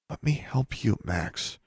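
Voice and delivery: soft, high-pitched plea; earnest pleading. A narrator's reading. Sister pleads to help her brother, earnest. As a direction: plead gently, voice lifted and hushed. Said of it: "she pleaded earnestly".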